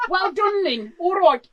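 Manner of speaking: stuck in a mock rocker's regional accent; hammed-up rock singer's accent that won't switch off. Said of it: "I can't do the full accent here".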